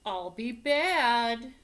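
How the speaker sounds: hammed-up tantrum shout; mock defiant shout. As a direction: belt it out like a defiant kid. Dinosaur boasting in story.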